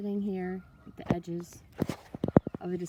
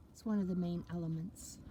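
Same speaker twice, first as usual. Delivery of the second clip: unhurried meditation voice with long pauses; guided meditation; 4 dB quieter than usual. Acted. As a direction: talk them gently through it, letting each phrase settle. Leads a water meditation.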